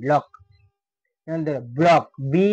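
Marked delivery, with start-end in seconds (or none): 0.1-0.3 "লক" with only one k at the end; silent C. Shown as a demonstration. Teacher asking learners to take note, "লক" with silent C. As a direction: say "লক", leaving C unspoken. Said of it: "সির উচ্চারণ কিন্তু silent".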